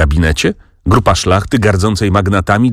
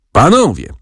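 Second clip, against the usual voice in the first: a mildly raised, higher call of Panowie; yell; 8 semitones higher than usual. A narrator's reading. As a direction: call the room to attention with a hammed-up shout. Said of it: "wrzasnął adwokat".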